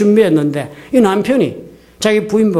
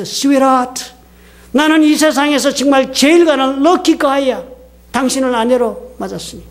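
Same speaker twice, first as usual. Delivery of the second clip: higher, hammed-up sweet talk; gushing affection; 4 semitones higher than usual. Husband telling his wife how lucky he is, effusively tender. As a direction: imitate a husband straining to sound adoring. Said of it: "있는 힘을 다해서 자신의 마음을 다정하게 표현".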